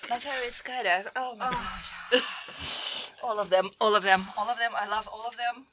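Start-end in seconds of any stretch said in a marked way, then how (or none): 1.2-3.1 gasping through spicy burn; strained, breathless from hot sauce; mouth on fire. Real, not acted. Reacting to burning hot sauce.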